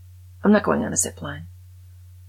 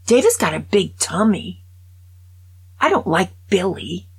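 imitating Peppa; 2 semitones higher, 5 dB louder than usual. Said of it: "because Peppa talks like this".

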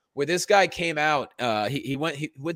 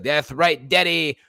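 Mister Midnight; 3 dB louder, slower than usual. Retold or imitated. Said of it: "every sentence, like".

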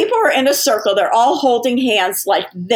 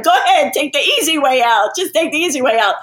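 mimicking a crowd egging him toward death; mock taunting yell; 5 semitones higher than usual. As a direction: taunt him to take the easy way out. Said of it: "these people are screaming at him".

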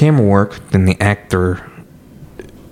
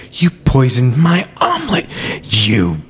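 accusing; 3 semitones higher than usual. Retold or imitated. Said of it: "He's like".

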